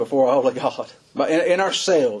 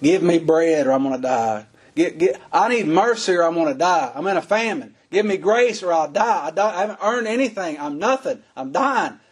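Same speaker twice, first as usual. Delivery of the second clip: desperate plea; 3 semitones higher than usual. Retold or imitated. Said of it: "and they're crying".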